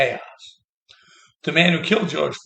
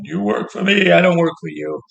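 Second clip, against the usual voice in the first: mock yell at workers, a bit louder; imitating an angry yell; 5 dB louder than usual. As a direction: bark it like an angry boss. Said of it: "he was yelling at workers going".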